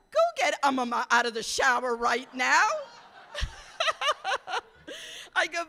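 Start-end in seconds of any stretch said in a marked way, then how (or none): 0.1-2.7 louder, urgent command; urgent order. Retold or imitated. Mother ordering her daughter to fetch grandma, loud and urgent. 3.2-4.6 high, ringing burst of laughter. Real, not acted. Speaker laughing at the crowd over her own story, high burst.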